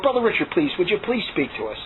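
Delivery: imitating meek, lamb-like pleading; nice, like lambs. Former critics begging Brother Richard to talk, meekly nice. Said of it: "really nice now, like lambs".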